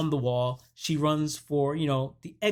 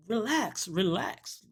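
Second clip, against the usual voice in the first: higher-pitched retold plea to calm down; mock exasperated soothing; 5 semitones higher, slower than usual. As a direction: lightly act out a man settling someone. Man tries to calm frantic woman.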